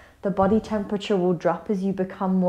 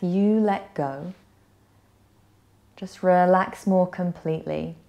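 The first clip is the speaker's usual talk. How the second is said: gentle yoga nidra guidance with long pauses; guided meditation. Acted. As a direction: ease them into rest, unhurried and slightly hushed. Leads a guided relaxation.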